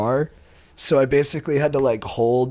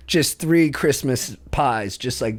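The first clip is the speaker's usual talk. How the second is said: slow, giggling bloop sounds; laughing; much slower than usual. Retold or imitated. Describing the accident to a friend, laughing. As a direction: savor each bloop through laughter.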